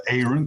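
"Aaron" with a long A, AIR-un; correct name pronunciation. Shown as a demonstration. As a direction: say "Aaron" as the speaker's own name, AY-run. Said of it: "two pronunciations that you've gotten correct".

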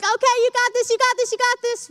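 a light mock cheer for the baby; playful parental pep talk; cheerleader parent. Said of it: "the biggest cheerleaders".

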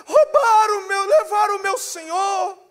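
high, loud mock wail; acted anguished outcry; distraught lament. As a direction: cry out the loss like a hammed-up mourner. Distraught Maria repeats her complaint.

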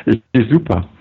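far-off robotic voice. Real, not acted. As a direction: sound like a transmission from space. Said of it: "du hörst dich wirklich an".

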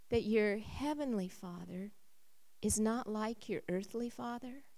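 soft, tender pleading; gentle reassurance. Retold or imitated. Husband gently reassuring his crying wife, tenderly. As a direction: comfort her quietly.

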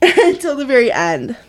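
laughing through tears; choked up, half laughing, half crying; real crying. Real, not acted. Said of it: "crying over this book".

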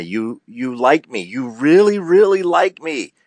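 imitating an Oscar winner's thrilled speech; Sally Field. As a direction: gush with tearful delight at the Academy. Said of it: "Sally Fields won her Oscar and she said".

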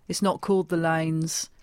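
slow, curt local correcting; gruff local. Retold or imitated. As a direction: flatly put her right. Grumpy local correcting her.

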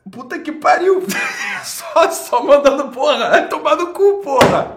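furious shout. Real, not acted. Streamer yelling at his chat, furious laughing shout. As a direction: scream it at the top of your lungs, half laughing.

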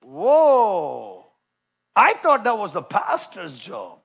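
drawn-out, mildly astonished reaction; mock surprise. Preacher voices a believer learning it isn't just the pastor's job, mock surprise. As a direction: act taken aback, stretching the words slowly.

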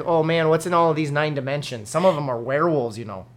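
folksy mock Yooper; light Yooper accent, mildly marvelling. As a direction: muse in a joking Yooper accent. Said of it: "we should make a Yooper".

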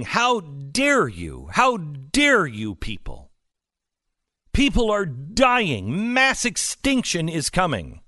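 slow, drawn-out mock outrage, rising on people; hammed-up imitation of a tearful activist; mocking Greta. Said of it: "who was crying and saying".

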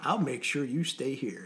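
quiet, fast half-laughing threat; hushed warning. Retold or imitated. Instructor quietly swearing recruits to secrecy, soft. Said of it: "Green's like".

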